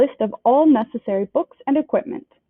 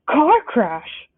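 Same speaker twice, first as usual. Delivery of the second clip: roaring; 3 semitones higher, 3 dB louder than usual. Acted. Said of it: "roared Hagrid".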